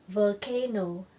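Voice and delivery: "Volcano" slowly, with a voiced, buzzed v at the start; thick English V. Shown as a demonstration. Teacher modelling the word for students, slow with thick V. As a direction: draw out "Volcano", starting on a full v. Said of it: "Ini V dibaca tebal ya".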